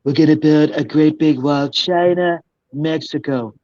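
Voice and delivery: lightly put-on character voice; slow into a put-on politician's boast; impression on request. Shown as a demonstration. Entertainer shows the interviewer a voice, put-on impression. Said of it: "I can sound like anybody".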